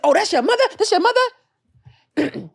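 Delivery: high, slow, sneering mock of a rude woman; mocking a rude patient, high and drawn out; mocking rude lady. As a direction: squeal it like a snotty stranger. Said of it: "She's like".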